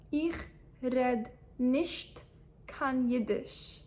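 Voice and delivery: each word set apart slowly, for learners; broken into slow chunks. Shown as a demonstration. Teacher splitting the phrase for students, slowly. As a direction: pause between "red nicht" and "kein Jiddisch". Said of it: "split slowly into parts".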